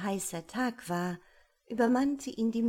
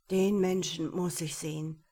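König. Acted. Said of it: "sprach der König".

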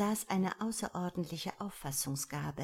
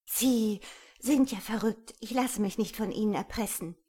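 loud, raised, outraged refusal; indignant outburst; 5 semitones higher, 7 dB louder than usual. A narrator's reading. Woman refuses the man's blackmail, indignant. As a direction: throw it at him, higher and louder.

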